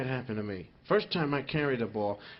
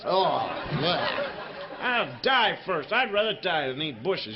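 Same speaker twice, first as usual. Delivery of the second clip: laughing refusal; 2 semitones higher, 3 dB louder than usual. Acted. Caveman refuses bushes dinner.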